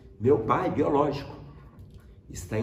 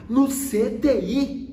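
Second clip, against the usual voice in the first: high, loud, drawn-out mock disbelief; incredulous echo; 10 semitones higher, 6 dB louder, much slower than usual. Father hearing it's the ICU, incredulous. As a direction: imitate dad's shocked question, very slow and high. Pai reage incrédulo à notícia.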